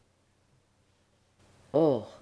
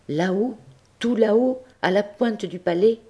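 climbing higher on each là-haut; rising awe; 8 semitones higher, 6 dB louder than usual. A narrator's reading. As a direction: lift the voice up to the heights. Narrator builds the height. (de plus en plus haut, émerveillé)

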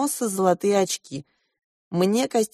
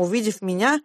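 ordinary delivery

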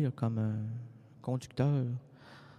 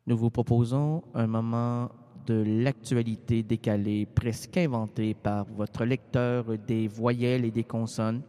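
news announcer; 3 semitones lower than usual. Acted. Annonce façon bulletin.

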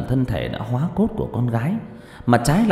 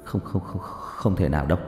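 stammering; 5 semitones lower, 6 dB quieter than usual. Acted. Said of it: "miệng lắp bắp".

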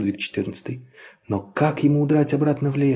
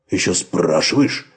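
low slow gruff dog; 6 semitones lower than usual. A narrator's reading. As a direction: snarl it like a dog. Dog snarls back.

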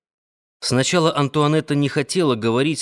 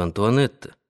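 tender question; 2 semitones lower than usual. A narrator's reading. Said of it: "ласково спросил он".

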